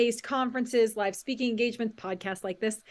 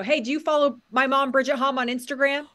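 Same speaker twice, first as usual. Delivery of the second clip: mild mock yell; 3 semitones higher, 5 dB louder than usual. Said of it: "He's screaming out the window".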